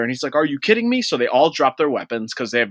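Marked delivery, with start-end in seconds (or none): 0.3-1.0 higher, hammed-up outraged disbelief; a villain reacting to a bluff, mock disbelief. A villain can't believe his hostage is worthless, outraged mock disbelief.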